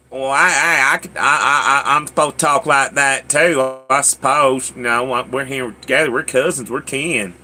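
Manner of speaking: imitated twangy Mississippi talk; cousins' Mississippi accent. As a child mimicking his cousins, twangy Mississippi accent. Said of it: "I'd hear them talking".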